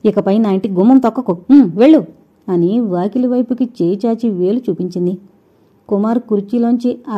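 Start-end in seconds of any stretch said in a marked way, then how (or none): 0.0-2.0 fast, louder, last word flung out; furious dismissal. Acted. Sridevi driving Kumar out of her house in furious rage. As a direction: throw him out of the house in fury. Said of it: "నిప్పులు కక్కే చూపులు".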